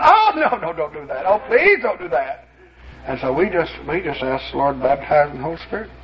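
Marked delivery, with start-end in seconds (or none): 0.0-2.5 imitated high wail of protest; retold panicky begging in a put-on high voice; screaming demon. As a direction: mimic a demon pleading, pitch leaping up on the cries. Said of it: "that thing started screaming".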